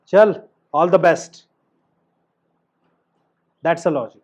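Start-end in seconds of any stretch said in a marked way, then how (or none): 0.1-1.5 forced warmth. Shown as a demonstration. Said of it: "सामने तो प्यार दिखाना ही पड़ेगा".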